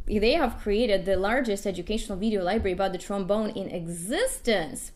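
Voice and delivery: breathless, running out of air; out of breath. Real, not acted. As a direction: push through with no breath left. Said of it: "I'm out of breath".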